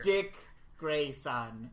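drawn-out name, dropping on the surname; Game of Thrones character. Acted. Host repeats the name for co-host, as Game of Thrones character. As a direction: announce it like a fantasy lord, pausing mid-name. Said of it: "make him sound like a Game of Thrones character".

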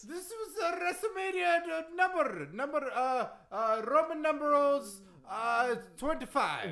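put-on boastful accented wrestling champ; Iron Sheik. Wrestler reciting his wins to the host, boastful accent. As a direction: brag in thick broken English. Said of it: "that Iron Sheik impression".

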